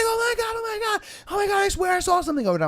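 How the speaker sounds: put-on high-pitched panicked girl. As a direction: babble it like a scared girl. Frightened girl retold.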